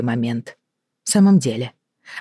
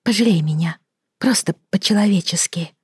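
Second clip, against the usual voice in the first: higher, breathless whisper; whispered plea; 4 semitones higher than usual. Acted. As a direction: beg for pity in a whisper. Elena begs.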